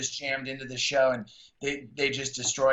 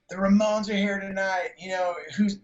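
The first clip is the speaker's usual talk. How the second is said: higher and louder hype; mock announcement; 6 semitones higher, 3 dB louder than usual. Announcing a band to the crowd, higher and louder. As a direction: rile up the crowd.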